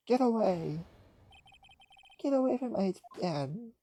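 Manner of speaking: put-on high, loud, frantic child's scream; desperate scream. Young boy screaming at the man attacking his father.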